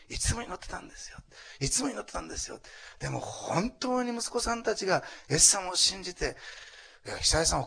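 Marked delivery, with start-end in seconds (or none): 0.1-2.6 high-pitched mock weepy repeat; imitated tearful insistence. Preacher retelling Morihara's tears over prayer, imitated tearful insistence. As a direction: plead it, higher, as if welling up. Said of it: "泣き出したんですよ、".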